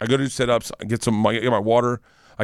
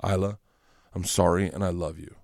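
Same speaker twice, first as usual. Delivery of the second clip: put-on sweet little girl voice; 5 semitones lower, 5 dB quieter than usual. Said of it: "She goes".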